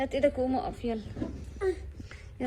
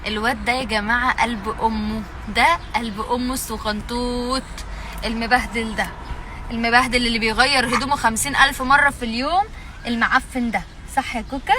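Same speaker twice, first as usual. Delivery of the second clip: lower, louder, teasing fondness; 3 semitones lower, 4 dB louder than usual. Real, not acted. Mother doting on her baby for the camera, fond.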